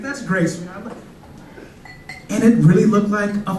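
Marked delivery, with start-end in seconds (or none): 0.0-0.9 soft, deflated praise; defeated dad. Retold or imitated. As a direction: say it softer, giving up. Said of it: "I was like".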